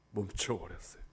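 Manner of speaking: low, near-silent telling; hushed. Acted. Preacher hushes as the storm stops. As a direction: let it fall to a hush.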